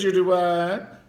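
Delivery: high, loud incredulous retort; high-pitched comic shock; mock disbelief. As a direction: act out an outraged double-take. Acting out a shocked reply.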